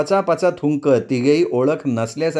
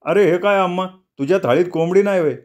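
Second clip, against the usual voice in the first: put-on drunk Nago; 6 semitones higher than usual. A narrator's reading. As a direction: soothe a friend while tipsy. Nago asks Amma. (बेनवाला शांत करणारा दारू प्यालेला नागो, सावकाश बोलत)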